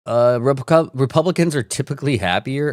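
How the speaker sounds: can't believe what you just read; reading a comment in disbelief; incredulous. Real, not acted.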